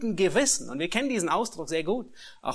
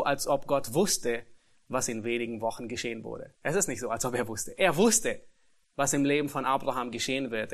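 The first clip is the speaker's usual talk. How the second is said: usual speaking voice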